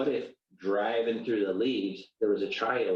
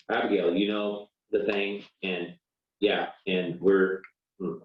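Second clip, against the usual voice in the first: mumbled non-apology. Pretend. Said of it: "the worst apology in history".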